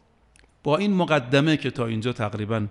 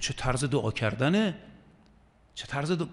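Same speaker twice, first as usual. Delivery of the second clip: soft, quiet reproach; gentle rebuke; 6 dB quieter than usual. Retold or imitated. Imam Sajjad softly rebuking the despairing man's prayer. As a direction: chide him gently. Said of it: "گفت".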